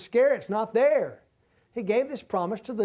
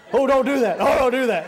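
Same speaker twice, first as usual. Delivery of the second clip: alarmed cry; 5 semitones higher, 9 dB louder than usual. Retold or imitated. Panicked elevator riders react to jumping.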